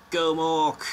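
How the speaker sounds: loud, high chant of a fan; big playful rallying call; mock cheer. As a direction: cheer the player on, drawn out. Mock cheer for team's player.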